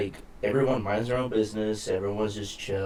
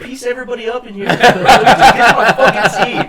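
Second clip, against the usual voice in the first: high, loud laughing threat; hammed-up tough-guy shout, cracking up; mock shout; 13 semitones higher, 17 dB louder than usual. Retelling his threat to the plane passengers, laughing mock shout. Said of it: "I swear to God, I was like".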